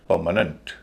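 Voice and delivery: परमानेंट with light middle and last syllables; corrected pronunciation. Shown as a demonstration. Teacher modelling the rule for students, corrected pronunciation. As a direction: stress the first of परमानेंट, ending in "nunt". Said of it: "परमानेंट".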